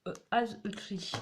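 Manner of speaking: English title with a French accent; hesitant French-accented English. Real, not acted. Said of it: "désolée de mon accent anglais".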